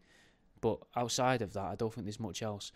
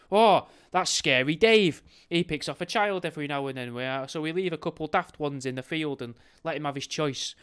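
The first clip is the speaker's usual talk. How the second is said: loud, raised-pitch mock townsperson explaining the monster; blasé local; 4 semitones higher, 7 dB louder than usual. Local explaining Scary Dave to newcomer, mock matter-of-fact.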